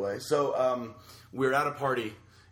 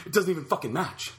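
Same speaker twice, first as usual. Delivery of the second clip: high, loud wailing self-pity, getting faster at the end; hysterical crying; 5 dB louder than usual. Retold or imitated. Girl bursting in on the party, hysterical high loud wailing. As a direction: wail it out like a girl falling apart in tears. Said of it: "she starts hysterically crying".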